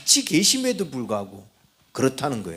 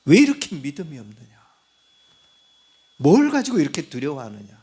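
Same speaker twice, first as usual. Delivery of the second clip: a firm rebuke, a little louder; the Lord reproving fearful believers; 3 dB louder than usual. Retold or imitated. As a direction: scold them for lack of faith. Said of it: "책망받는 일이 있겠죠".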